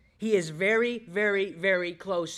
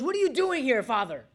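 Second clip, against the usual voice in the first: high-pitched whining complaint; hammed-up, high grumbling question; mock whine; 6 semitones higher, 3 dB louder than usual. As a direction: whine it like a put-out child. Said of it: "He never once whines".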